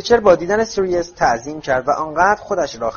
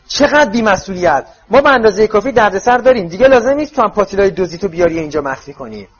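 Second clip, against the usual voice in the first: high, loud scolding; angry yelling; 7 semitones higher, 7 dB louder than usual. A narrator's reading. Mother scolding a man for bringing stolen cauldrons, yelling. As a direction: yell a furious telling-off.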